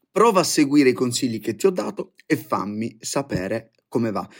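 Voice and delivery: ordinary delivery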